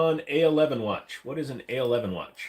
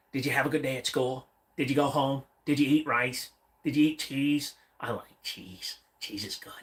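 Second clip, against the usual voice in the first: silly talking voice. Pretend. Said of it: "I'm gonna talk like this".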